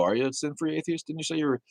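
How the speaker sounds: usual speaking voice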